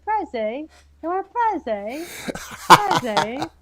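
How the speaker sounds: "preze" with a long rising final "ay"; British slang pronunciation. Shown as a demonstration. Showing how British people say presents, "preze" with a rising "ay". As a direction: stretch "preze" into two syllables, lifting the end. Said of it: "that they say preze".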